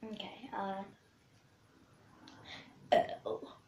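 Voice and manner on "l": letter burped out. Shown as a demonstration. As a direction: burp the letter L. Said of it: "That was L".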